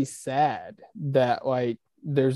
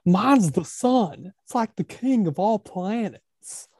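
Will Ferrell as Harry Caray; 8 semitones higher, 5 dB louder than usual. Retold or imitated. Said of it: "the Saturday Night Live, Best of Will Ferrell when he's like".

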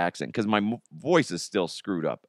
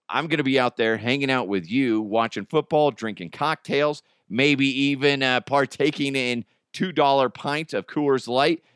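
upbeat, lightly pitched-up promo read; sponsor ad read; 4 semitones higher than usual. Acted. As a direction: sell it like a local radio spot. Reads a sponsor ad.

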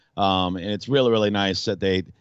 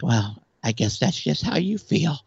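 dismissive girl's line, lightly mocked, voice higher; mocking the girl; 5 semitones higher than usual. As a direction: brush it off the way she did, a light mock. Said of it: "she's like".

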